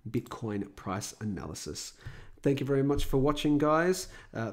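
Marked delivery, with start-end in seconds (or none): 2.4-4.1 tired, slightly hoarse sick voice; worn voice from a cold. Real, not acted. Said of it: "my tired and sick voice".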